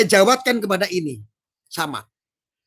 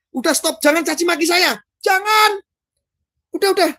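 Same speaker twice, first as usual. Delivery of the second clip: high, hammed-up plea; mock pleading; 8 semitones higher, 3 dB louder than usual. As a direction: beg them to stop, overdone. Begging commenters to stop. (memohon dibuat-buat)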